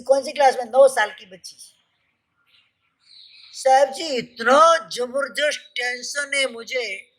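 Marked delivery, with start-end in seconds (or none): 3.6-7.1 lightly imitated child, slow and drawn out; retold little girl. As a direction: stretch out the words like a small child complaining. छोटी बच्ची की बात सुनाते हुए. (छोटी बच्ची की हल्की नकल, धीरे-धीरे खींचकर)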